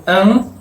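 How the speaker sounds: "an" as one nasal vowel, as if M or N followed; nasalized A. Shown as a demonstration. Teacher showing the tilde's effect on A, nasalized. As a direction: let "an" ring through the nose. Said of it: "nasaliza a estas vocales".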